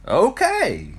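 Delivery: high, loud triumphant okay. Acted. Euclid triumphantly settles the name for his friends. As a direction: announce it like a winner. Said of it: "Euclid said triumphantly".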